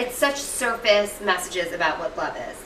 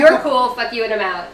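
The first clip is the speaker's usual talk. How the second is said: mock dismissive summary; 6 dB louder than usual. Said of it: "That's what he just did".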